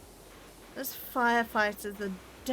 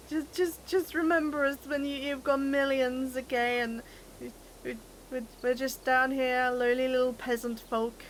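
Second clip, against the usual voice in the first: higher-pitched, put-on lowly plea; mock-humble pleading; 3 semitones higher than usual. Teasing a TikTok-famous friend not to forget them, mock-humble. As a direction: play the forgotten little peasant, half-joking.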